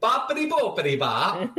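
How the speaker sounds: sing-song "Boppity boopity bop" in mock Italian; playful stereotype Italian patter; mock Italian gibberish. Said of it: "You got to speak like this".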